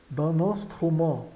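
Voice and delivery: "d'un instrument" as "dan-nanstrumã"; N liaison. Shown as a demonstration. Teacher explains the link, "d'un instrument" joined by N. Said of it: "ocorre uma ligação do N".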